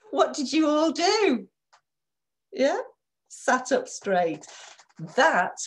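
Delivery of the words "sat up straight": each word slow and firm; sit up tall as you say it; slow and deliberate. Shown as a demonstration. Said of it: "body language of a confident person".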